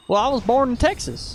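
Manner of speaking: folksy Texas accent, pitched a little up; Texas country accent. Shown as a demonstration. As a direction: show off your Texas accent. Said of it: "I do that accent better".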